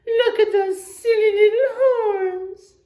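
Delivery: high, loud, snorting sneer; snorting rhino. A narrator's reading. Rhino mocking the little warthog, high loud snort. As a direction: snort the insult out like a scornful rhino. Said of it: "snorts Kafaru the rhino".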